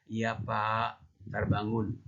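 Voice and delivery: lightly acted timid compliance; scared of father. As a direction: answer dad obediently, a little cowed. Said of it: "Takut sama ayah".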